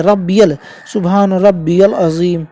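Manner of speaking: slow "सुभान रब्बियल अजीम" with "रब्बियल" drawn out; correct pronunciation. Shown as a demonstration. Teacher slowly showing the right recitation of "रब्बियल". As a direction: stretch "रब्बियल" so the "ई-ए" is clearly heard. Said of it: "रब्बिल नहीं है".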